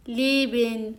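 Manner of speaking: leben as "lee-ben"; long ee in leben; correct leben. Shown as a demonstration. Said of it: "نگفتم leben".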